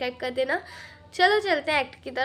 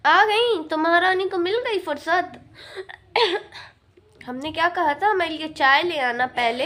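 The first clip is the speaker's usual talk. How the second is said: a hint of a sharp, higher mother-in-law; scolding mother-in-law; 3 semitones higher than usual. Mother-in-law taunting her late daughter-in-law, lightly voiced. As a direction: nag her with lightly raised pitch.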